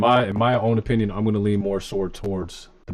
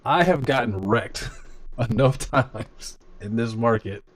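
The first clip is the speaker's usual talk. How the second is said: slow, laughing through the words; can't keep the laugh out of it; real giggle breaking into a slow line; laughing while talking; 2 semitones higher, slower than usual. Real, not acted. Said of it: "I'm laughing".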